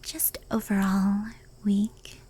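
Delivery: whisper. Acted. Yokai admitting how it saw humans, whispered. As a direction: let the words barely leave your lips.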